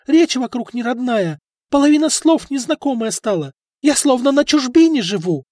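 high and loud, furious; wife rages at husband; furious outburst. A narrator's reading.

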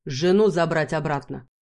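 громко и решительно; выпали на ходу; торопливо бросил. Acted. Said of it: "торопливо бросил". (Бархан спешит за женой: громко, торопливо)

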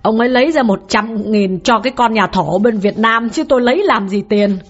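a hint of weeping in a wronged wife's complaint; sniffling wife. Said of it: "sụt sùi nói".

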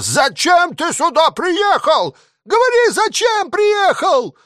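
high, slow furious yell; shouting in his face. A narrator's reading. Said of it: "кричал в лицо". (артиллерист кричит комиссару в лицо, очень высоко)

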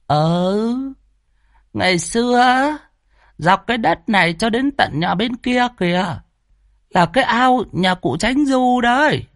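put-on high-pitched old granny voice, gossipy; old woman storyteller. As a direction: tell it like a village grandma spilling old secrets. Old woman tells village tale. (giọng bà cụ kể chuyện, cao giọng, rôm rả)

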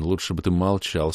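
ordinary delivery

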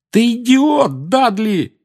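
loud, high furious yell. Acted. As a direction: yell it out in pain and rage. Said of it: "завопил Гарри".

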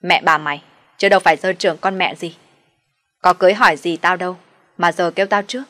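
loud furious outburst; shouting. Acted. Daughter-in-law shouts back at her brother-in-law, loud and furious. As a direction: yell it at him, fed up. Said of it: "tôi nói lớn".

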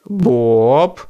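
loud, impatient snap. A narrator's reading. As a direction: lose patience, cut him off. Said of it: "теряя терпение".

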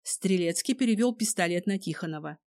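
usual speaking voice

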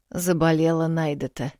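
ordinary delivery

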